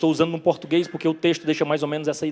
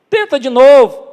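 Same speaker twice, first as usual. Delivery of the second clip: loud, high shouted instruction; big ringing call to a distant boat; 8 semitones higher, 12 dB louder than usual. Retold or imitated. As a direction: shout it across the water. Acted calling out from shore.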